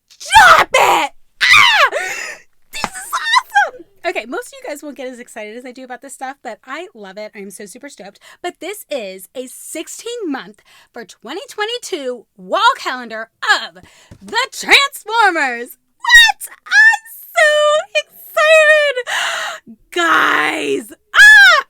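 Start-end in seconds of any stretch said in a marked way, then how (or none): 0.1-3.8 much higher, louder shriek of joy; high, loud joyful shriek; excited scream. Real, not acted. Thrilled scream at gift. 16.0-21.6 much higher, louder joyful shriek; high, loud thrilled screams; ecstatic screaming. Real, not acted. Screaming over Transformers calendar.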